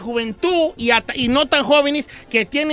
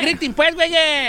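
rousing call; 5 semitones higher, slower than usual. Pretend. Rousing the imagined crowd to yell.

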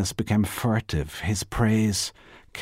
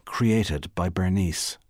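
like a line of poetry; slower than usual. A narrator's reading. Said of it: "as if they were a line from a poem".

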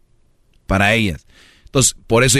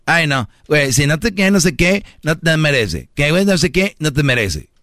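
put-on higher, whiny gossipy girl voice; mocking the girlfriends; 4 semitones higher than usual. Mocking girls telling a friend he's unworthy: high whiny voice. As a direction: imitate a silly friend, pitched up. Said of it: "esas chavillas que".

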